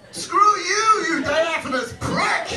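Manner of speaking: high, loud yell, drawn out at the end; mock angry shout. Chicago man cursing a cloud, mock angry shout. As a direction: hurl a hammed-up insult skyward.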